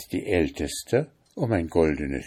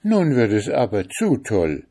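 louder, fed-up outburst; angry cry; 3 semitones higher, 5 dB louder than usual. Acted. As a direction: snap at the snake in anger. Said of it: "rief Oda zornig aus".

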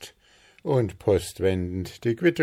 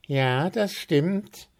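slow, high-pitched agreement; admiring; 8 semitones higher, slower than usual. A narrator's reading. Willi looking at the smooth icing, admiring. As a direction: draw it out in admiration. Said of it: "der bewundernd auf den gerade gestrichenen Guss schaute".

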